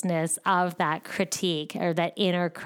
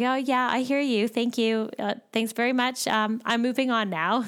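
dismissive brush-off; 4 semitones higher than usual. Pretend. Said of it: "It's like detaching from it".

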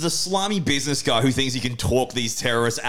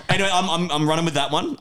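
high-pitched, talking through laughter; laughing; 9 semitones higher than usual. Real, not acted. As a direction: carry on while still laughing. Still laughing after the joke.

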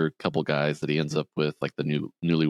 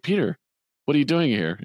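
mock surprised Sarah; 9 semitones higher, 3 dB louder, faster than usual.

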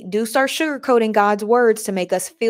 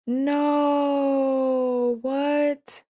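disbelief; 6 semitones higher than usual. Real, not acted. Disbelief at the news.

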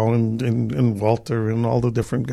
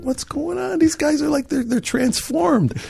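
inner thought; 13 semitones higher, 3 dB quieter, slower than usual. Retold or imitated. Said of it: "And I'm thinking".

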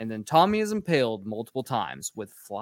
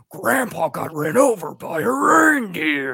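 mock dramatic line; 10 semitones higher, 7 dB louder, slower than usual. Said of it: "he's like".

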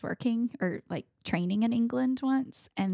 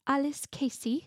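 name said in a higher-pitched British accent; put-on British accent; 6 semitones higher than usual. Shown as a demonstration. Guest asked to say her name with an accent, British accent. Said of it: "say your name with an accent".

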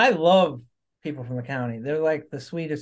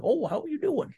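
polite greeting; 12 semitones higher, 3 dB quieter than usual. Retold or imitated. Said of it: "and you'd be like".

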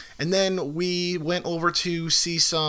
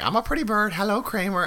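high bird imitation; parrot voice; 5 semitones higher, 3 dB quieter than usual. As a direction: chirp it like a cockatoo. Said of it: "and he's like".

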